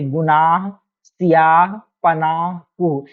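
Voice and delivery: गुनाह, सियाह, पनाह, कुह with the last h breathed out; audible closing h on गुनाह, सियाह, पनाह, कुह; pronounced final h. Shown as a demonstration. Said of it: "बिल्कुल पढ़ा भी जा रहा है".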